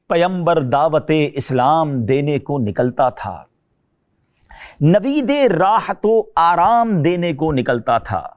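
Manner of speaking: slow, measured reading of verse; solemn recited Urdu poetry; poem recitation. Acted. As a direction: recite each line slowly, letting it land. Recites a poem about the Prophet.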